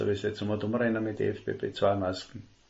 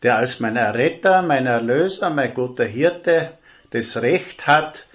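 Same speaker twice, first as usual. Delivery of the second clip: louder, rising preacher's voice, slowing on guter Hirte; fervent preaching; 6 dB louder than usual. Real, not acted. Preacher to congregation about Jesus the shepherd, fervent and loud. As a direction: proclaim it to the whole congregation. Preacher building to his point.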